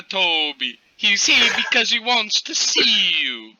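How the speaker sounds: high mother voice; mother's voice. Acted. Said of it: "Why is that his voice?".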